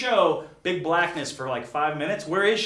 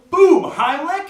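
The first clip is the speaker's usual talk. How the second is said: boom; 11 semitones higher, 9 dB louder, slower than usual. Acted. Acting out hot dog rescue.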